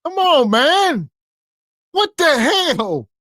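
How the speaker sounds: stunned what-the-hell; disturbed disbelief. Real, not acted. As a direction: react like you can't believe it. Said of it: "I'm disturbed".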